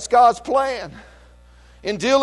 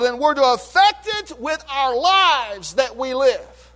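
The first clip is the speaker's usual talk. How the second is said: much higher, loud, hammered phrases; fiery preaching; 7 semitones higher, 6 dB louder than usual. Real, not acted. Pastor hammering the congregation with you are the salt, fiery. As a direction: cry out each word to the congregation.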